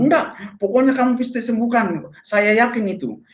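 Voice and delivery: high-pitched mimicked insistence; insistent. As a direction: act out a friend refusing to take no. Friend insists, overriding refusal. (menirukan desakan ngotot)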